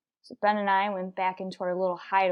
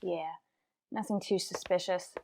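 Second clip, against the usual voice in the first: hushed; 9 dB quieter than usual. Acted. Detective in hiding sizes up the passing man, hushed. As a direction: keep it down, he's still close. Stakeout, suspect just walked past.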